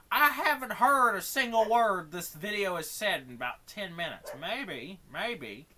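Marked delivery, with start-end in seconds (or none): 0.1-4.3 very loud frustrated complaint; exasperated rant. Real, not acted. Streamer ranting at viewers about the muted video, exasperated. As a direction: raise your voice in real frustration.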